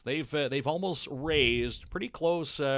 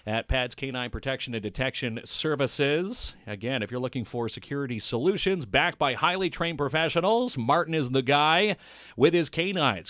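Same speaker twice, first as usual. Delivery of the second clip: upbeat, raised-pitch sponsor plug; sponsor read; 3 semitones higher, 3 dB louder than usual. Acted. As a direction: wrap up the show with a lively ad read. Reads sponsor plug to close.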